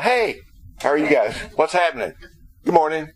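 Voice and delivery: breezy, offhand hello with a high lift on hey; very casual greeting. Pretend. Pastor playing Jesus greeting the women, casual and breezy. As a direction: toss it off like bumping into friends. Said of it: "refers to a very casual greeting".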